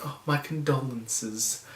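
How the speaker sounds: slow, soft, hollow "my condolences"; imitating a hollow "Oh, my condolences", said slowly and softly; fake condolences. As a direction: mimic a polite but empty "Oh, my condolences". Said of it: "a lot of them felt so fake".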